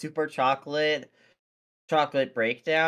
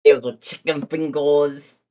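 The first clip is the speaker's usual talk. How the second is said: put-on louder Brooklyn accent; 6 dB louder than usual. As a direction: lay on a thick Brooklyn accent. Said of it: "I'm saying this in a Brooklyn accent".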